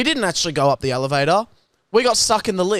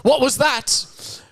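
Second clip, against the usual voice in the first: put-on a higher, slow old lady's question; grandma asking; 8 semitones higher, much slower than usual. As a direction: lightly voice an old grandma, drawn out. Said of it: "my grandma's like".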